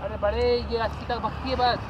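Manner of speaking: sneering take on the other rider's words; mocking imitation. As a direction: parrot his claim back with scorn. Mocks the other rider's claim. (दूसरे की बात की नकल उड़ाते हुए)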